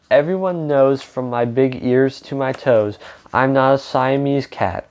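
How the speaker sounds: reading a picture book aloud to children, with lightly voiced characters; story narration. A narrator's reading. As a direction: tell the story to a young audience.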